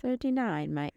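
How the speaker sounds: high-pitched, shaky-attempt Australian accent; amateur mock Australian accent. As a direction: have a go at Australian, badly. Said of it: "I can't do an Australian accent".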